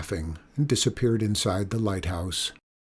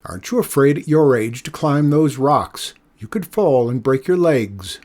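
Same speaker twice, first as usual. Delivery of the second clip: calling down; 3 semitones higher, 6 dB louder than usual. Acted. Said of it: "the man called down".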